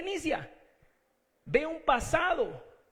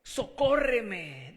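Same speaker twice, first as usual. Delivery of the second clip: pleading cry; 2 semitones lower, 4 dB louder, much slower than usual. Retold or imitated. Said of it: "le dice la mujer a Jesús".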